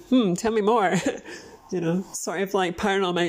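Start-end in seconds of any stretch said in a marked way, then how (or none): 0.1-1.0 a touch higher, mock curious hum; lightly voiced curious dad; intrigued dad.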